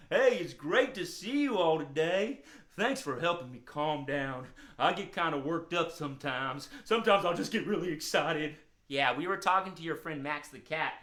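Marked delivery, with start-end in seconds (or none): 0.1-8.6 lightly voiced puppet dog, a bit low; a hint of an easygoing hound character; friendly hound dog. Calmed dog thanking children for helping, friendly hound voice.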